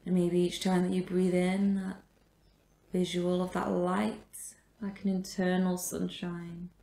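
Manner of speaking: measured meditation guidance with long pauses; guided meditation. Real, not acted. Yoga teacher guides a class resting in supported fish, guided meditation. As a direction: guide the breath, leaving space after each phrase.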